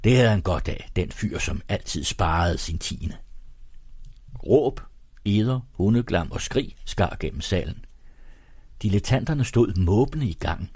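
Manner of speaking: measured literary narration with pauses between sentences; story narration. A narrator's reading. Presenter reading Egholms Gud aloud to radio listeners, story narration. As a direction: read the novel aloud with lively pitch movement.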